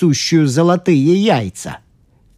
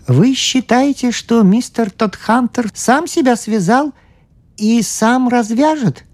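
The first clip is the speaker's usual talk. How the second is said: high, small priest voice; 10 semitones higher than usual. Acted. The priest asks the scientist, high and meek.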